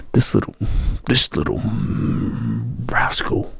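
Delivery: soft, fond whisper trailing off; tender hushed whisper over a sleeping puppy; hushed so the dog sleeps. Real, not acted. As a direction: drop to a whisper so you don't wake the dog. Dog asleep beside him.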